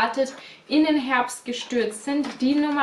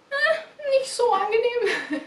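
high-pitched, laughing through the words, slowed; 10 semitones higher than usual. Real, not acted. Explaining hand scrubbing to viewers, laughing it off. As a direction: giggle while admitting it.

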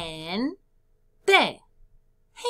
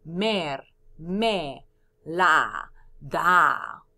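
"Mer, me, la, da" a bit louder, spaced out; counting syllables again; 2 semitones lower, 5 dB louder, much slower than usual. Shown as a demonstration. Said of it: "¿cuántos hay?".

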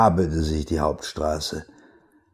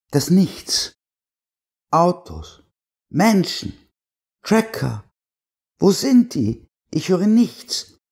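uneasy; 8 semitones higher, slower than usual. Acted. Frightened wife in silent town.

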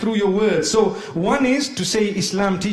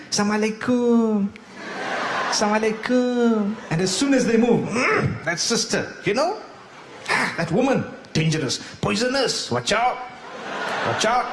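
put-on Malaysian accent. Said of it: "I'm saying it in a Malaysian accent".

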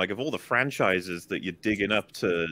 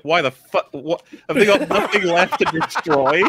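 incredulous outburst; 6 semitones higher, 6 dB louder, slower than usual. Retold or imitated. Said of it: "They're like".

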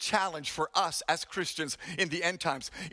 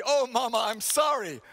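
profuse apology; 3 semitones higher than usual. Retold or imitated. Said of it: "apologized profusely".

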